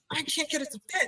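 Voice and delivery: mock whine of a stuck toddler; a hint of a child's frustration; frustrated child. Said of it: "he's getting frustrated and he's like".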